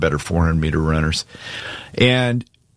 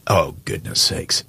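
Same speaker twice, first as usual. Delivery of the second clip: choked up; 3 semitones lower, slower than usual. Real, not acted. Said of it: "choked you up this morning".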